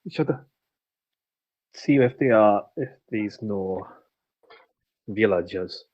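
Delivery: put-on halting, lightly French-accented character voice; accented game character. Character suggesting a look for villagers, halting accented voice. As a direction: feel for the words in a put-on accent.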